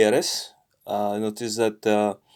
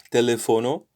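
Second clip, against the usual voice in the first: teléfono with extra emphasis on its accented é; stress on accented syllable; faster than usual. Shown as a demonstration. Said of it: "should be stressed".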